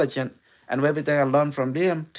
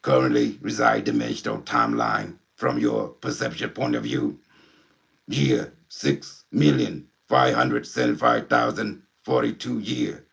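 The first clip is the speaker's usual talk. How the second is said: Unimetric One. Acted. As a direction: speak like an alien intelligence through a medium. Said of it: "you wanna meet, uh, Unimetric One?".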